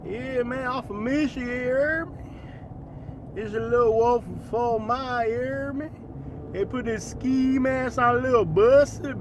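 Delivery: mumbly mock Fort Myers accent. Shown as a demonstration. Streamer parodying Fort Myers locals, slurred Fort Myers accent. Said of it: "I'm gonna do a Fort Myers accent".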